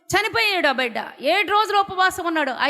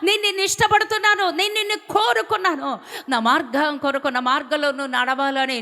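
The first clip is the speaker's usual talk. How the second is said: voice of God; 4 semitones higher than usual. Acted. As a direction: speak as God calling his beloved, lifted and tender. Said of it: "ఆ స్వరం నాకు బాగా వినపడుతుంది". (దేవుని స్వరం, ప్రేమగా)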